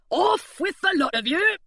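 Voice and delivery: guard dismissing the crew; burly pirate. A narrator's reading. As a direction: send them off.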